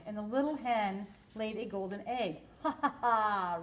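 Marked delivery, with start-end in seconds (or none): 2.6-3.6 roaring laugh. A narrator's reading. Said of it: "roared the giant".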